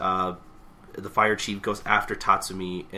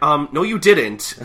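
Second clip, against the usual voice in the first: high, loud disbelief; comic indignant holler; exasperated yelling; 6 semitones higher, 10 dB louder, slower than usual. Retold or imitated. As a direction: shout at someone who won't listen. Acted exasperated yelling at old man.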